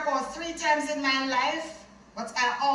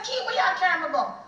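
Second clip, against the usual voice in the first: retold shout; 4 semitones higher, faster than usual. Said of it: "So I shouted at him".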